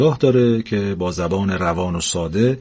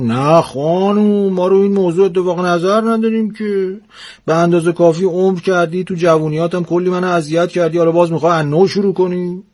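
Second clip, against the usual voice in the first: put-on grumbling old husband; 8 semitones higher than usual. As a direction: protest against his wife's wish. Husband arguing with wife. (پیرمرد معترض با صدای زیر و بلند)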